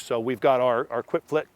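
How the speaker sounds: short of breath at high altitude. Real, not acted. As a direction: talk with thin air, catching breath. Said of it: "I'm sorry at high altitude right now".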